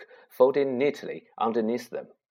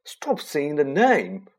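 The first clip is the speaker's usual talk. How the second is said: whispered fear; 5 semitones higher, 4 dB louder, slower than usual. Acted. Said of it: "said Ron in a terrified whisper".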